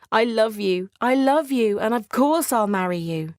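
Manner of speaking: Beauty declaring love to the weeping beast; heartfelt declaration. Acted. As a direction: pour out your love.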